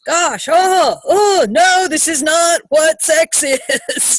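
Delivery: high, drawn-out horrified protest, hammed-up; exaggerated wailing disbelief; mock dismay. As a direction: act appalled, voice swooping up with a laugh. Acting out horrified reaction to porn.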